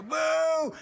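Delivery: high, loud mock boo aimed at his wife. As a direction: boo her from across the stage. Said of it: "as Dave's booing".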